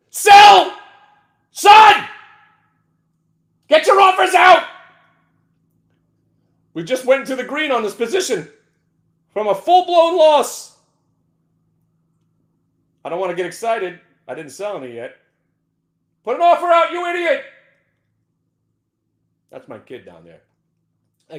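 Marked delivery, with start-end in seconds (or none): 0.1-4.7 loud high yell; shouting orders. Real, not acted. Father shouting sell orders at his son, loud. 6.7-10.8 rising loud and high with joy; excited. Real, not acted. Trader telling viewers the loss turned green, excited. 16.2-17.4 loud high exasperated yell; yelling at son. Real, not acted. Father yelling at son to place offer, exasperated.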